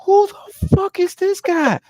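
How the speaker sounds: high, loud, slow disbelief; baffled outburst at a stranger; incredulous. Retold or imitated. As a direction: draw out the shocked question. Retelling his disbelief.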